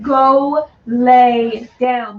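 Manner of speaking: loud, very slow drawn-out command; slow stern order. Real, not acted. Owner telling the dog to lie on the bed, slow loud order. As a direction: stretch each word firmly at the dog.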